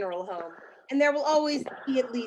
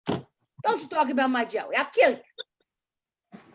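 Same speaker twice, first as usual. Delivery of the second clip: slow, menacing warning; menacing threat; much slower than usual. Acted. Wife slowly threatening the stranger who insulted Joey. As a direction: drag it out as a threat. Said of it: "Angela will be like".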